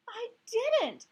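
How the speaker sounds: high, loud defensive protest; upset denial. Acted. Heidi loudly denying the cheating, upset. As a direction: push back hard, hurt. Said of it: "Heidi said".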